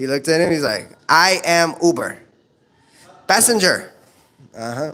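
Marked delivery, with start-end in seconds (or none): 1.1-3.9 put-on slow Filipino accent. Retelling what an uber driver told a cop at a traffic stop, imitating filipino accent. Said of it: "It's a small Filipino dude".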